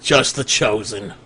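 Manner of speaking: low, slow, softened wizard voice; wounded wizard. Acted. Wounded wizard explains Tiamat's gifts, low and slow. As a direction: answer slowly, as if fading.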